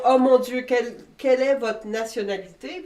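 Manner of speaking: retold astonishment, bursting in on "Oh mon Dieu"; amazed question. Swiss passers-by asking visitors where they're from, imitated amazement.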